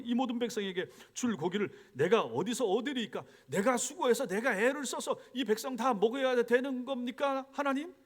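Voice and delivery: acted grievance to God, pitch climbing toward the end; resentful complaint. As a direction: imitate an overburdened leader protesting upward. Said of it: "이렇게 원망하는 거예요".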